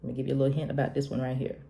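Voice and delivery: soft, quick confiding hint; half-whispered tip; a hint of a hushed secret; God whispering. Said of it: "really quick whispered".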